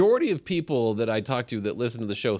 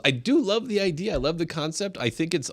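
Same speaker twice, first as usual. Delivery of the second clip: quoting Richard; 7 semitones higher than usual. Retold or imitated.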